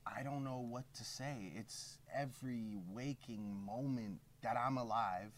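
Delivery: slow, weary voice with a lisp; lisping impression of a rapper. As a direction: play a tired star with a lisp. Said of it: "where did this lisp come from".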